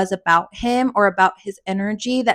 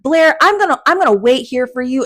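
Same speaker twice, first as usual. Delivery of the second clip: higher, louder protective offer; higher loud mock-chivalrous voice; husband's promise; 3 semitones higher, 3 dB louder than usual. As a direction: reassure her loudly like a true ally. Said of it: "He was like".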